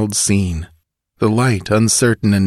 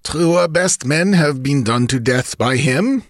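musing; 8 semitones higher than usual. Acted. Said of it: "mused the bandit chief".

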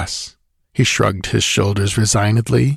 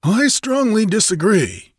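firm interjection; 12 semitones higher than usual. A narrator's reading. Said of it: "broke in Taurus the Chancellor".

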